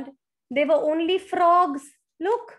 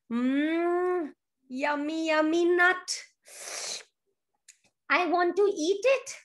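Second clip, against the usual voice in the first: lightly voiced squirrel savouring a treat; hungry squirrel; 5 semitones higher than usual. A narrator's reading. Squirrel spotting a nut, mildly greedy relish. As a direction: relish it, pitched up a little. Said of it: "little squirrel saw a nut".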